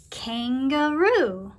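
"kangaroo" said slowly with a questioning lilt; careful word demo. Shown as a demonstration. Teacher offers the next word, "kangaroo" said slowly. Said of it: "Let's listen carefully".

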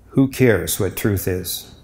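slow, soft scornful dismissal; sneering. Retold or imitated. Priest voicing Pilate brushing off Jesus, sneering softly. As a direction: sneer it out, brushing truth aside. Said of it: "Do you say it in a sneering".

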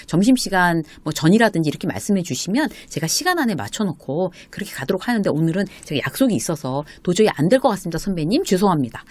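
politely standing your ground; firm but polite. Pretend. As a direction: decline courteously but firmly. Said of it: "단호하게 얘기하는 거죠. 정중하게".

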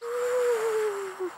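airy whistling ooh; whistling wind. Acted. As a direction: blow it like the wind. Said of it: "whistled the wind".

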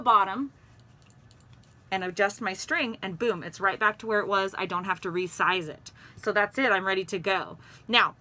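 muffled behind cloth mask; speaking with covered mouth; through a face mask. Real, not acted. Seen 5: Cloth mask over mouth and nose from 1.0s, pulled down 10.3s.

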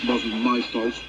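lightly voiced sulky engine; sulky mutter. Sixteen blaming the trucks to his driver, mildly sulky. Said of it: "muttered sixteen sulkily".

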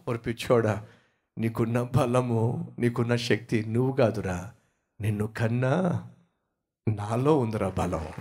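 a hint of an affectionate father; fond father. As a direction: tease the boy lovingly. Father lovingly scolds son.

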